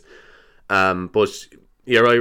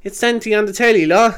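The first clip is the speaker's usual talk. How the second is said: excited parent; 11 semitones higher than usual. Retold or imitated. Parent showing Santa on Zoom.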